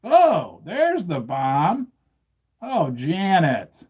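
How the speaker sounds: slow, hammed-up horror over the bomb; milk the disaster like a cartoon; drawn-out mock alarm at the bomb; mock dramatic dismay. Acting out bomb drop with props.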